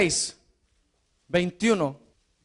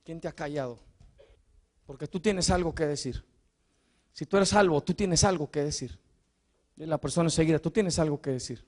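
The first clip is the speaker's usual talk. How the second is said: soft intimate; 6 semitones lower, 8 dB quieter, faster than usual. Acted. Preacher drops voice intimately.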